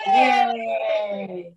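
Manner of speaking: loud, joyful yay; cheering shout. Real, not acted. Teacher cheers with the group, shouting.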